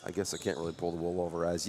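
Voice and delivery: stuffy congested voice, blocked nose. Real, not acted. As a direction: speak as if your nose is stuffed up. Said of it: "Yes, I'm a little congested".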